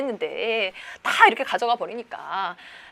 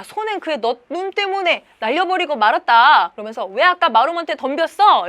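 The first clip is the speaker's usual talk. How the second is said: raised, louder reproach; acted scolding; 4 semitones higher, 6 dB louder than usual. Father blames eldest son for lost ox, scolding.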